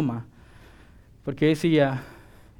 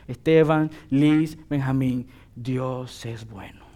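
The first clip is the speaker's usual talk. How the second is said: heartfelt; 2 semitones lower, much slower than usual. Shown as a demonstration. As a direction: say it slowly, as someone who has lived it. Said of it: "necesito experimentar la bondad de Dios". (sincero y pausado, mucho más suave)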